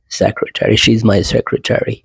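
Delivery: SECRETARY ending in a full "TERRY"; American pronunciation. Shown as a demonstration. Teacher gives an example sentence, American pronunciation. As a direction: say secretary as "SEC-ruh-TERRY", also in the sentence. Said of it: "American इसको बोलते हैं".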